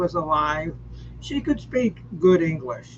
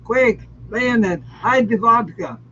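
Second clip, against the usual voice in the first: mock Russian accent. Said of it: "you use my Russian accent".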